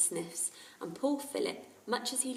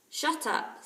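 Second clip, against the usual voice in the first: put-on cross boy; 8 semitones higher, 6 dB louder than usual. Philip annoyed.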